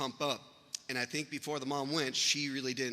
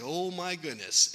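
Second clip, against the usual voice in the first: slow, higher, stunned exclamation; mildly acted disbelief; retold shock; 4 semitones higher, slower than usual. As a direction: draw it out as if dazed. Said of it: "you see the look on his face".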